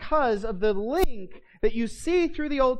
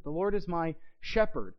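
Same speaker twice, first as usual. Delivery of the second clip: softer, even "The Lord is my", then "shepherd" set apart; usual emphasis on shepherd; 3 semitones lower, 5 dB quieter than usual. Shown as a demonstration. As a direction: leave "Lord" unstressed and settle gently on "shepherd". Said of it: "we emphasize it".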